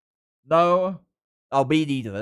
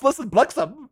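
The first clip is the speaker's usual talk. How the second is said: angry Afrikaans swearing; 9 semitones higher than usual. Shown as a demonstration. Streamer shows off swearing in Afrikaans, mock angry. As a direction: curse in Afrikaans with mock fury. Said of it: "I start swearing in Afrikaans".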